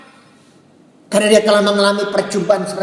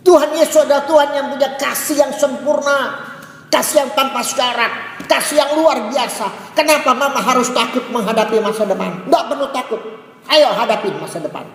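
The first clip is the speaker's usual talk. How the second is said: put-on encouraging child; 5 semitones higher than usual. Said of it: "Apa yang ini berkata?".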